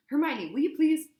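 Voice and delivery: high and loud pleading; exasperated shout. A narrator's reading. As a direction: shout her down, begging. Harry pleading over shouting.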